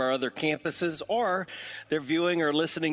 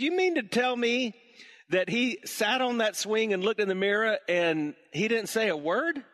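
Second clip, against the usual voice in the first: higher and louder, hammed-up amazement; mock disbelief; 9 semitones higher, 3 dB louder than usual. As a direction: act shocked he didn't know. Owner feigns disbelief again.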